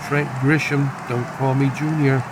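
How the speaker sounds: measured sportscaster call; announcer keeping listeners on the action; baseball play-by-play. Pretend. Calls the baseball game live.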